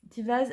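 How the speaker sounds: "Tivaz" with a clear V sound; "Tivaz" carefully sounded with a V in the middle; W pronounced as V. Shown as a demonstration. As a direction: say "Tivaz" with V, not W. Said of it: "alors on dit V".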